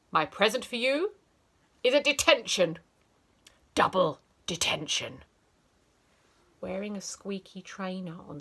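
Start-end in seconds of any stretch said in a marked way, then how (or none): 0.1-5.2 louder, mocking triumph; teacher gloating over a child. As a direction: relish the cruel twist. Teacher's cruel gift.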